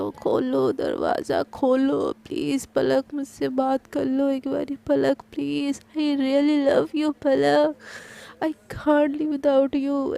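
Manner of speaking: slow, drawn-out tearful begging, lightly acted; retold crying plea. Sana begging Palak through the closed door, slow mock-tearful pleading. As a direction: plead through the door as if half in tears, slowly. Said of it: "ऐसे बोल के रोती रहती है".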